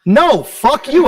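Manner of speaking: a loud, slow, hammed-up mock yell at the reporter; joking shout. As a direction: bark it out slowly as a fake insult.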